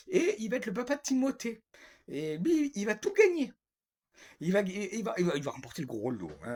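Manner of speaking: high, loud mock-triumphant sarcasm; sarcastic. Real, not acted. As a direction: proclaim it with exaggerated, sarcastic enthusiasm. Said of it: "Attention, c'est sarcastique". (sarcastique, faussement triomphal)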